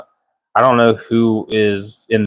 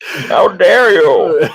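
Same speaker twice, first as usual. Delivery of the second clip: slow, higher, laughing through it; laughing mock outrage; 7 semitones higher, much slower than usual. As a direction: ham villain line cracking up. Bane impression through laughter.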